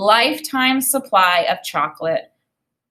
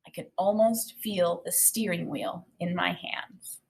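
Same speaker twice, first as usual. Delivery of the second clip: dreamy whisper; 10 dB quieter than usual. A narrator's reading. Dreamy daydream line.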